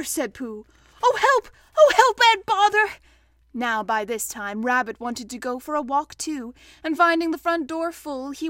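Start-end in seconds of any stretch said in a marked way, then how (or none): 1.0-3.0 loud, very high wail for help; frustrated alarm. Acted. Pooh wedged in the doorway, frantic. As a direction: cry out, stuck and bothered.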